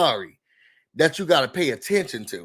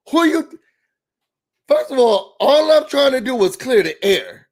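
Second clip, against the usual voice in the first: raised, higher rant; exasperated; 5 semitones higher, 4 dB louder than usual. Pretend. Host answering Kenya as Britt, exasperated. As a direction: vent as if facing Kenya.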